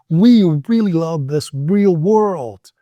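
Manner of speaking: slowish, each r and l placed; careful drill sentence. Shown as a demonstration. Teacher modeling the tongue twister with care. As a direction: articulate every r and l carefully. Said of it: "Slow down".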